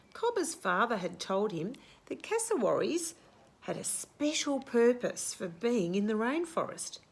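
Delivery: lively read-aloud storytelling; story narration. A narrator's reading. Teacher reading the class a picture book, storytelling.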